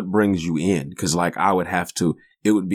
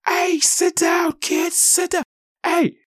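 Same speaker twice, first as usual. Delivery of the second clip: much higher, nasal-free cartoonish white-dude voice telling a kid off; mock white guy; slower than usual. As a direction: lampoon an annoyed white man. White dude keeps yelling.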